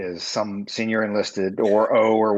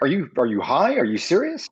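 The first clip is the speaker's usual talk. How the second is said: incredulous; 4 semitones higher than usual. Retold or imitated. Retold disbelief at being ticketed.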